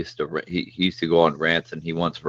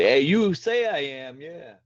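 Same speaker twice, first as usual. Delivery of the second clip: mock Jesus quote; 8 semitones higher, slower than usual. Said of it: "You're like".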